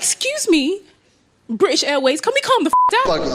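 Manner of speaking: high, loud, mocking comeback; woman mocking her short boyfriend's posturing; sassy retort. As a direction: snap it back with sass. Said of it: "I was like".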